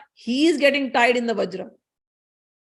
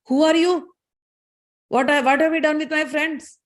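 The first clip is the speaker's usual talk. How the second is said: higher-pitched challenge, lightly acted; confronting wind god; 5 semitones higher than usual. Wind god challenging the strange lady, confronting. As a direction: demand answers as an affronted god.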